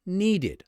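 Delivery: "needed" in two slow, clear syllables, ending in id; extra -id syllable. Shown as a demonstration. Teacher showing how need becomes needed, extra syllable sounded. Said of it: "we add an extra syllable".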